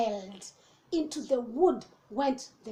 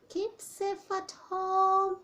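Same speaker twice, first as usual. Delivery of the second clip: gruffalo voice; 6 semitones higher, 3 dB quieter, slower than usual. Acted. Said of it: "says Gruffalo".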